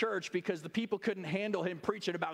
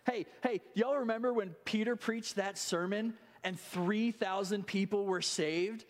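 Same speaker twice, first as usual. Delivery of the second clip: higher, eager call across the table; excited call; 5 semitones higher than usual. Acted. A guest at the heavenly banquet hails Peter, excited. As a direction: point Peter out with delight. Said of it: "somebody says".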